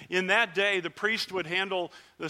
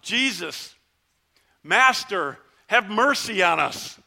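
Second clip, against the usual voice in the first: loud pleading call, slower on the last words; calling out for mercy; 6 dB louder, slower than usual. Retold or imitated. Lepers calling to Jesus from afar, loud plea. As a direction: cry out to someone far down the road. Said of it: "We decided we were gonna yell out".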